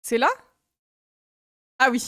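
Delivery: usual speaking voice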